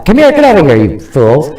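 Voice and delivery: calling out. Real, not acted. Calling family up on stage.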